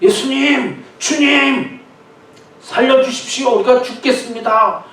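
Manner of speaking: high-pitched, desperate plea; acted cry to be saved from death; crying out in prayer. Shown as a demonstration. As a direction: call out as in fervent communal prayer. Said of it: "우리가 통성 기도하듯이".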